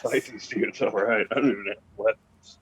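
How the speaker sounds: lightly voiced salty old guy; a hint of a laid-back old sailor, man; George voice. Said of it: "Gotta do the voice this week for George".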